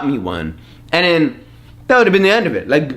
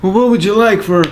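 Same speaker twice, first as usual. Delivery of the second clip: lightly voiced Santa; 3 semitones higher than usual. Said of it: "So he would tell me".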